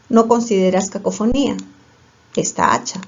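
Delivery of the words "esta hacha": susurrado. Shown as a demonstration. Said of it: "¿no es este hacha o esta hacha?".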